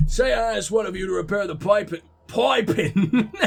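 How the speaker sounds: put-on American accent slipping on "piping"; failed American gruff. Coach giving a repair example, botched American accent. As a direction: overdo the vowel in "piping" and crack up. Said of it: "I can't do Southern accent gruff".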